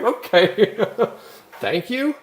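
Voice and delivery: high laughing thanks; thanking a drunk Parisian through laughter. Retold or imitated. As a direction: laugh out an awkward thank you. Laughing at backhanded compliment.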